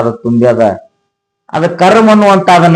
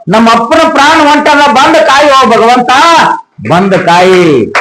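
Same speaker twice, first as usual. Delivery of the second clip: wailing plea; 7 semitones higher than usual. Acted. Daughter wailing to God to save her father, tearful high plea. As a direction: beg God high and tearful, stretch the last words. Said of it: "ಅಳ್ತದ, ರೋದನ ಮಾಡ್ತದ".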